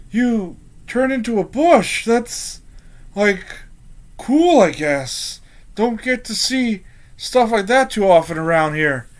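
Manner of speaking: lightly voiced guard settling after a scare; awkward guard. Guard to bush-turned companion after a scare, mildly awkward. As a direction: start high, ease down into halting awkwardness.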